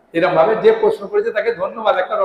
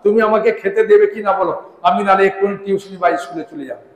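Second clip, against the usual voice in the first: put-on loud, fast demanding child; a boy in a temper yelling at his mother; son's temper; 4 dB louder, faster than usual. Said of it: "টেম্পারের সঙ্গে বলছে". (রেগে গিয়ে মাকে চিৎকার করে তাড়া দেওয়া ছেলে)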